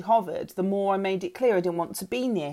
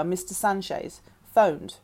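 ordinary delivery

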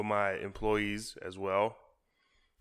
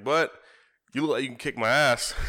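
customer's admission; 4 semitones higher, 7 dB louder than usual. Retold or imitated. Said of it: "and he's like".

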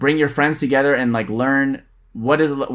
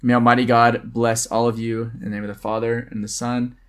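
prayerful blessing. Acted. Deacon blessing the co-host and listeners in a measured prayer voice.

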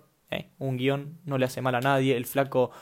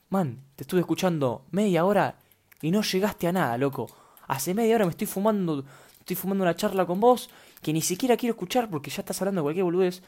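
annoyed listener; 5 semitones higher than usual. Retold or imitated. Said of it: "el flaco viene y dice".

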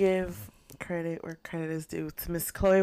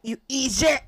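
playful Irish lilt, higher pitched; mock Irish accent; 6 semitones higher than usual. Cohost attempts an Irish accent on request, lightly mocking. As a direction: try a put-on Irish accent. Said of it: "An Irish accent".

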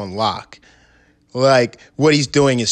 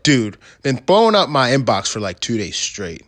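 white rapper voice. Retold or imitated. Friend rereading a rapper's message, mild white rapper voice. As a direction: lightly put on a white rapper's voice. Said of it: "Is this your white guy voice".

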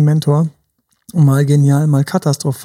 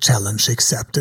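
cool declaration; 6 semitones lower, 5 dB quieter than usual. Retold or imitated. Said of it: "Da hätte ich gesagt".

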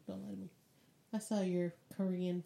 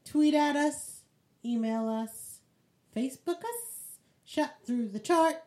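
announcer voice; 5 semitones higher, 4 dB louder than usual. Acted. Announcing to listeners.

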